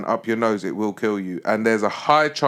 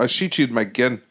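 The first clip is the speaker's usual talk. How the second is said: bad South African accent. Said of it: "I can't do South African".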